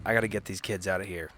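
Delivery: normal talking voice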